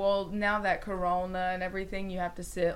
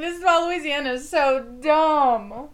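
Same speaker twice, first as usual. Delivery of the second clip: outraged; 7 semitones higher, 9 dB louder than usual. Real, not acted. Mock outrage about teachers.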